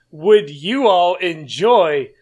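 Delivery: slow, loud robotic delivery; stiff, inorganic robot voice. Acted. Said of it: "Why do you say that so inorganically?".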